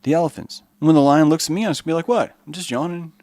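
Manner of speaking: a sly giraffe playing innocent; lightly voiced innocent giraffe faking a yawn. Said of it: "He decided a long time ago".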